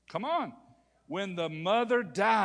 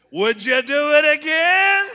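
much higher mock wife; high imitation of wife asking; wife's voice; 12 semitones higher, 16 dB louder than usual. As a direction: ask as the wife, high pitched. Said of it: "didn't have the guts to ask her".

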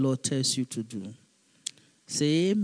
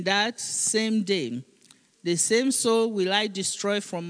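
raised, declaiming Bible reading; scripture reading; 3 semitones higher than usual. Acted. Pastor reading Leviticus aloud to the congregation, declaiming. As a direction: proclaim the verse to the church.

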